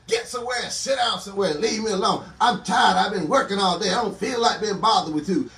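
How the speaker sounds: mock scolding, firm and insistent; acted fed-up parent preaching it out; exasperated parent. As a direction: send the kids off, fed up. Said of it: "we tell our children".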